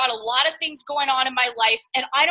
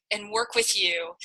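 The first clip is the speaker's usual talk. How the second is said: whisper; 4 semitones lower, 6 dB quieter than usual. Acted. Heartfelt mentoring pitch to recruit.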